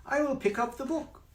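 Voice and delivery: high cat voice saying book; cat mixing words up. Acted. Cat in the hat misspeaking to the children, high. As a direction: play the slip as the cat. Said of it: "The hook, book, you have to be careful".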